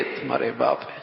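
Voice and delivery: threatening. Shown as a demonstration. Preacher about to complain to the child's father, threatening. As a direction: warn that you will report them. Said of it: "دھمکی بھی ہو سکتی ہے".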